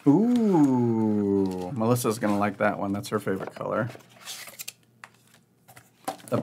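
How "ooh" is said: impressed ooh. Real, not acted. Host peeking at new game pieces, impressed ooh. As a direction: draw out an admiring ooh. Admiring reveal of pirate pieces.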